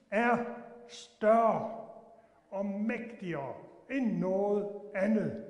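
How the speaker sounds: slow, emphatic sermon voice; slow, rising preaching with stressed words. Acted. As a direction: preach it, word by word. Preaches God's might.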